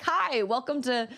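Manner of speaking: mildly chirpy shop clerk; shopkeeper voice. Retold or imitated. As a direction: greet a customer in a bright shop voice. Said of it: "the guy's like".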